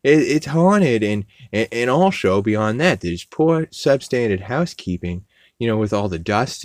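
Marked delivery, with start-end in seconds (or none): 0.0-1.0 put-on nerdy kid warning. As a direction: fret like a worried nerd. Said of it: "He's like".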